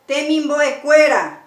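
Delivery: "Temimbo e cuera" with a loud e in "cuera"; firm penultimate stress in "Temimbo e cuera"; tonic stress on e. Shown as a demonstration. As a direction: punch the "cue" of "cuera", not its final a. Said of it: "el acento tónico encima de la e".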